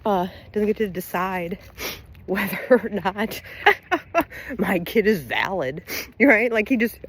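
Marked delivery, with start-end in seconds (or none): 2.3-6.5 words broken up by real laughter; cracking up mid-sentence; laughing to tears. Real, not acted. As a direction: keep talking through a laughing fit. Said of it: "I'm crying".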